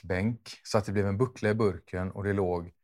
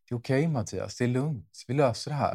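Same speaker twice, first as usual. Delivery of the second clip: reassuring; 3 semitones higher than usual. Pretend. Wishing the partner had comforted them, reassuring. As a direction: gently talk a partner down. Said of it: "tänk om du hade sagt då".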